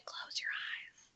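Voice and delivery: barely-there slow whisper; secretive voiceless whisper to allies; furtive mouthing. Acted. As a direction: mouth it silently, just a breath of sound. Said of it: "pantomime without being too noticeable".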